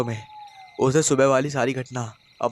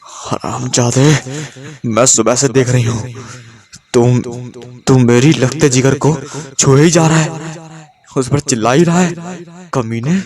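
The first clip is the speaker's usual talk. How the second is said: cracked, harsh man's voice roaring much louder; possessed roar; 8 dB louder than usual. A narrator's reading. Possessed wife roaring at her husband while choking him, harsh demonic roar. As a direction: roar like a demon has taken her throat. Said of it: "फटी फटी मर्दानी कर्कश आवाज़ में दहाड़ने लगी".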